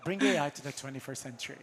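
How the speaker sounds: lightly put-on tagline voice. Host trying out a guest company's slogan, light tagline voice. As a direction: deliver it like a slogan, half in jest. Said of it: "That's my best tagline voice".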